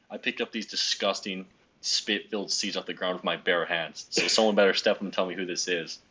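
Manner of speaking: intimidating. Retold or imitated. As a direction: lightly imitate an intimidating officer. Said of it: "he's, like, really intimidating when he talks".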